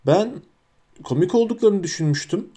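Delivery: hesitant. A narrator's reading. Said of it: "Hagrid tereddütlü bir sesle".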